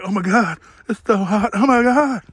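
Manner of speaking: imitating panicked YouTubers, rising in pitch; mock freak-out. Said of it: "freaking out like".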